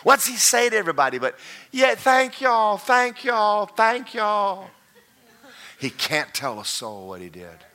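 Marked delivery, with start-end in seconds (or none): 1.7-4.7 high, slow, strained thanks; forced thank-you. Retold or imitated. Bob thanking the crowd for his own bad house, strained and high. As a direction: smile through gritted teeth.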